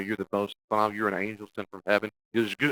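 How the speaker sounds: loud, lightly gushing flattery; a hint of overdone adoration; gushing praise. Shown as a demonstration. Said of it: "They'll praise you".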